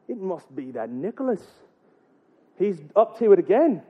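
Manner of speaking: lightly voiced suspicious Irish parent; mock Irish accent. Parent suspects Nicholas of the prank, mock Irish accent. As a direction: pin the blame in put-on Irish. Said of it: "I'm gonna get that accent".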